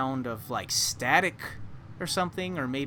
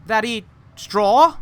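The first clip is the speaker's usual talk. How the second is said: a floppy straw man puzzling it out; scarecrow voice; 9 semitones higher, 12 dB louder than usual. Acted. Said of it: "a different man's voice".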